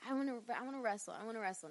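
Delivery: quick, lightly voiced begging kid; bratty kid. Bratty kid begging to be a wrestler, lightly imitated. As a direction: pester in fast, repeated demands. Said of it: "being the bratty little kid I was".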